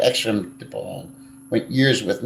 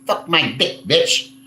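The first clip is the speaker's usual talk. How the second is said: imitating Filipina accent; 4 semitones higher, slower than usual. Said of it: "the way they say dick".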